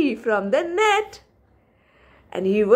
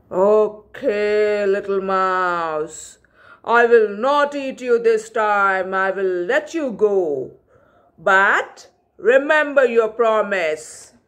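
a hint of a lower, grand lion; lightly voiced lion; 4 semitones lower than usual. Lion letting the mouse go, lightly lower and stately. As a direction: grant mercy as a proud king.

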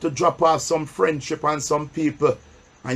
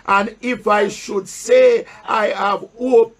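slow, raised reading of the Bible verse; solemn pulpit Bible reading; scripture reading; 2 semitones higher, slower than usual. Acted. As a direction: read the verse slowly to the church, pausing for answers. Preacher reads scripture aloud.

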